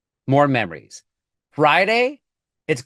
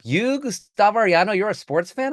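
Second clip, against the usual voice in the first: incredulous friends; 5 semitones higher than usual. Retold or imitated. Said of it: "people always get tripped up".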